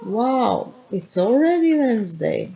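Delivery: bright, pleased wow; positive feeling. Shown as a demonstration. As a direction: glad the week is moving on. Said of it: "Positive feeling".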